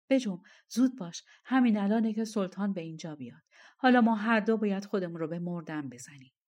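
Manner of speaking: quick, urgent instructions; hurried urging. Acted. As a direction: hurry your partner along. Urging wife to hurry. (با عجله و شتاب)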